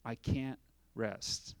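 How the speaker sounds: put-on mother explaining to teen, tender and slow; worried mother. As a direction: plead gently with a worried heart. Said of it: "She says".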